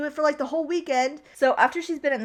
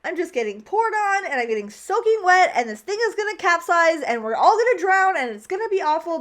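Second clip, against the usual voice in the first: higher, louder mock complaining; pretend pissed-off rant; 5 semitones higher, 4 dB louder than usual. The speaker imagining herself in the rainstorm boat, mock angry rant. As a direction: whine about getting soaked as if furious. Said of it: "I would be so pissed off".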